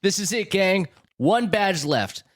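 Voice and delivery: high, excited cartoon hero voice; eager young hero. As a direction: play it like a keen young trainer. Reads Ash in the script.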